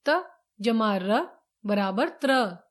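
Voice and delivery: क जमा श spelled out slowly, piece by piece; slow dictation. Shown as a demonstration. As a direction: spell out the sum for students. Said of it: "teacher demonstrates combining letters". (धीमा, साफ़ उच्चारण)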